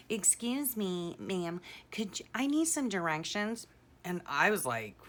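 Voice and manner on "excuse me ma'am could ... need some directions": creepy stranger voice. Retold or imitated. Son pranking his mom from a car, creepy put-on voice. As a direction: play the weird dude leaning out of the car window. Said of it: "like, creeper dude".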